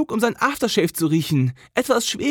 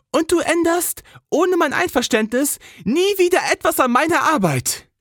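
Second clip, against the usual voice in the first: firm warning; 12 semitones higher than usual. Acted. Jess to Cole before she leaves, firm warning. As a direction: lay down the law to him. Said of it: "Ihre Stimme war wieder glatt, professionell, undurchdringlich".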